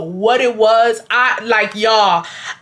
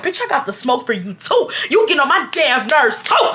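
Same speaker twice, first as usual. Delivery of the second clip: retold anger; 4 semitones higher than usual. Turning on the manager in anger.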